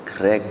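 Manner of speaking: low, soft "greng"; softly voiced sound of a closing door; gentle door closing. Shown as a demonstration. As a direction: imitate a door eased shut quietly. Contrasting gently closed door.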